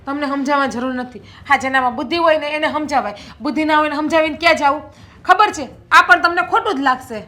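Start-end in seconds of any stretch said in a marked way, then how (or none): 1.2-7.2 fast, louder sarcastic jab; sharp retort. Acted. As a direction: fire back at him. Wife retorts sarcastically in quarrel.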